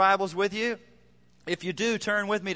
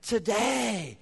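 a hint of a defeated grumble; mock complaining; 4 semitones higher than usual. Churchgoer excusing himself, lightly mocked whine. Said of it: "the tendency is to say".

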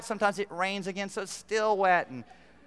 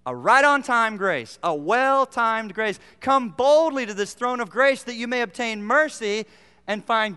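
preaching; 5 dB louder than usual. Acted. Preaching on Hebrews.

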